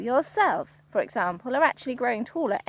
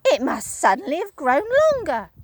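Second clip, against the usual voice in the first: put-on much higher, louder worried old woman; Missus Twit, alarmed; 5 semitones higher, 6 dB louder than usual. Wife staring at her stick, high alarm. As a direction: squeak it out in alarm. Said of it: "Missus Twit said".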